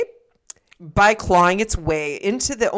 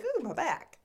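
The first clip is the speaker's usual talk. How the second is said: mock pleasured ooh; 6 semitones higher, 11 dB quieter than usual. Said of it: "I would be like".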